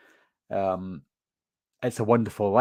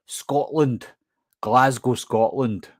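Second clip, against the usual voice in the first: broader Scottish on "Scotland" and "Glasgow"; much slower than usual. Shown as a demonstration. A Scottish YouTuber shows how he says his home town, broader Scottish. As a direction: lean into the Glasgow accent on "Glasgow". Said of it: "I tend to go more Scottish when I mention it".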